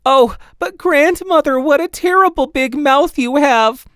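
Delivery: put-on a little girl's rising alarm; high, loud frightened cry of a child. Redcap's alarmed last question.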